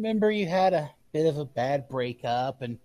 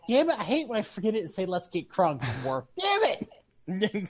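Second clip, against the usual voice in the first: quick, higher-pitched annoyed outburst; mock fit of frustration at himself; exasperated cursing; 4 semitones higher than usual. The speaker curses his own slip.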